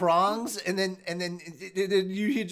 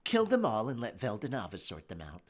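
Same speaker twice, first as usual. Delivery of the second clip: menacing; 10 semitones lower, 10 dB quieter than usual. Acted. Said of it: "I liked it".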